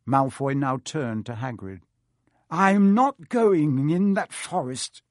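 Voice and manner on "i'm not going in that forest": slow, higher, a note of panic; panicky. Acted. Malfoy refusing Hagrid, higher with a note of panic. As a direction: insist while the fear leaks through. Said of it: "the note of panic in his voice".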